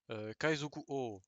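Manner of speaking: "Kaizoku O" said slowly, with a long O and no "ou" sound. Shown as a demonstration. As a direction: stretch the final O of "Kaizoku O". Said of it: "ça se prononce O".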